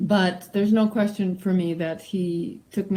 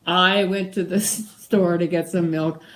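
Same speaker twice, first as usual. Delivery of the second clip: "store" lifted a little, broken off by a laugh; laugh, restart, then lean on "store"; stress demo with a laugh; 3 dB louder than usual. Shown as a demonstration. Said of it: "how emphasis on certain words changes".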